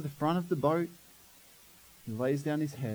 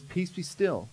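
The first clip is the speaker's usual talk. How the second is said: calm; 4 dB quieter, slower than usual. Retold or imitated. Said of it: "Jesus calmly gets up".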